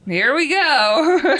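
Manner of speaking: loud, high, long drawn-out GO; hyped-up anticipation. Real, not acted. Host reacts to the doorbell moment, loud drawn-out hype. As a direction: belt it out slowly, stretching "go". Repeats it, hyping the coming drama.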